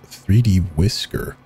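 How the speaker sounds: "three D Whisker" said slowly, the file name read as the word whisker; pronounced Whisker. Shown as a demonstration.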